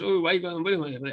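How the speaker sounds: imitated mobster gabble, fading out; mock protest trailing away indistinctly; Frankie Carbone mannerism. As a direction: run the words together into a soft mumble. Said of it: "that's how it sounded".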